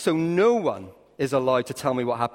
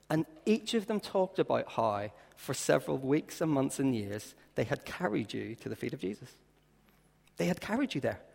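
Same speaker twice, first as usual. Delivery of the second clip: tender; 4 dB quieter than usual. Acted. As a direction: let it sink in gently. Tender slowing of the story.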